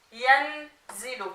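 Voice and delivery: yanzilu slowly split after "yan"; slow, segmented "yanzilu" for a learner; syllable by syllable. Shown as a demonstration. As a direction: sound out "yanzilu" slowly, holding the n. Teacher assembles word from spelled syllables.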